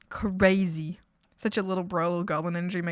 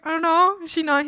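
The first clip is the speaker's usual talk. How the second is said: mock surprise; 8 semitones higher, 5 dB louder than usual. Replying to brother about girlfriend.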